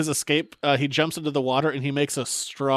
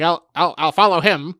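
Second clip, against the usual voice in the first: put-on louder, slightly raised old-time hero; old-timey voice; 2 semitones higher, 5 dB louder than usual. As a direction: declare it like an old cartoon hero. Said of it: "they all have that old-timey voice".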